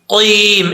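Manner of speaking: कीम with a thin front k; the mistaken light कीम; wrong light k. Shown as a demonstration. Teacher shows the wrong light syllable. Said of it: "इसको कीम नहीं पढ़ना".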